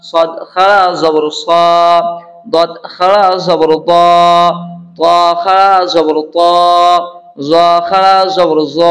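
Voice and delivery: measured chant-like drill with long final vowels; spelling drill recitation. Shown as a demonstration. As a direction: recite each spelling evenly, drawing out the last syllable. Leads a letter-by-letter recitation drill.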